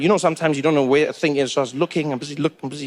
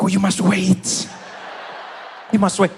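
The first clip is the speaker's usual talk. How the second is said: scolding passenger. Retold or imitated.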